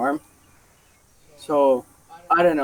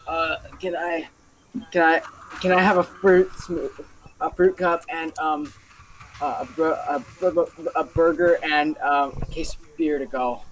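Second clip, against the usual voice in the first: put-on drunk lady. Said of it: "half drunk or something".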